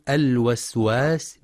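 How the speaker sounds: "الوسواس" as al-waswas, first waw open; waw with fatha. Shown as a demonstration. Teacher naming the word correctly, "الوسواس" as al-waswas. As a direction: slowly say "الوسواس" with wa at the start. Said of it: "فلينتبه لفتحها".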